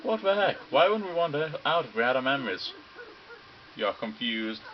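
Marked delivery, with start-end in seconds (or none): 0.0-2.7 high, loud disbelieving cry; shocked outburst. Acted. Student stunned by the mastermind's claim, loud disbelief. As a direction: blurt it out, stunned.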